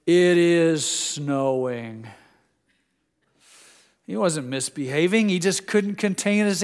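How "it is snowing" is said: slow, drawn-out quote of a dad; imitating son-in-law. Son-in-law answering his yelling boy about snow, slow mild imitation. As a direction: lightly voice a dad's long, slow reply. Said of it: "I heard my son-in-law say".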